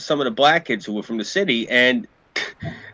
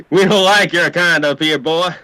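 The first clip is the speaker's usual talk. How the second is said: mock-angry local, higher and louder; retold local hostility; 5 semitones higher, 5 dB louder than usual. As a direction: imitate a hostile upstater warning off an outsider. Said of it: "they get angry".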